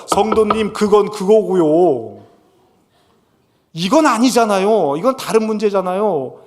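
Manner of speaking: mock pastor brushing off a member; dismissive pastor. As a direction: wave away the complaint with a lilt. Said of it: "원하신다면".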